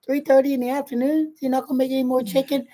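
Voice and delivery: retold indignant disbelief. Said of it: "and it was like".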